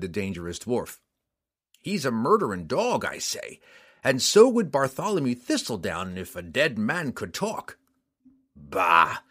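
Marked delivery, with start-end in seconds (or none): 1.8-7.8 lightly voiced surly bounty hunter; a sour frontiersman spitting contempt; rough mountain man. Mountain man Roddy sneers. 8.5-9.2 gruff dismissive snort of a word. Acted. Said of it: "Bruner snorted".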